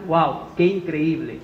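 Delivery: slow, drawn-out wow of wonder; mock amazement at the plated head; amazed wow. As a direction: marvel at the dish slowly. Imagined diner's amazement.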